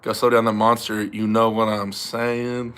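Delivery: a hint of a rapper impression; slow, drawn-out tail; a rapper. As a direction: lightly mimic him, slowing into a drawn-out catchphrase. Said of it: "is that the same Ice-T".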